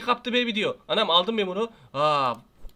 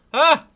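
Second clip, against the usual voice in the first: loud high startled yelp; sudden fright yelp; startled gasp; 7 semitones higher, 9 dB louder than usual. Real, not acted. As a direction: jump and cry out. Jump scare.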